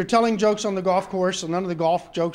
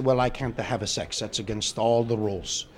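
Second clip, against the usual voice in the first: pontiff; 6 semitones lower than usual. Acted. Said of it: "His Holiness".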